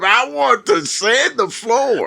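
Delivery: put-on high, slow eager kid. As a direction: sound like a keen kid. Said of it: "people were signing up".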